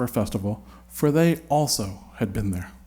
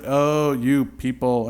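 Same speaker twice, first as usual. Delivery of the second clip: cheery; slower than usual. Pretend. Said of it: "and he's all cheery".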